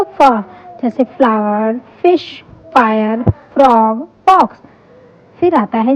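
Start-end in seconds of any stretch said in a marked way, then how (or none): 0.0-0.4 "फ" as an f sound with short vowel; letter sound demo. Shown as a demonstration. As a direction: sound out "फ" for learners. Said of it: "F की sound होती है".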